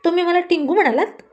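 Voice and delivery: indignant outburst. Acted. Rani, hurt at being called tiny, snaps back indignantly. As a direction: bristle at being called short. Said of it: "राणी चिडली आणि म्हणाली".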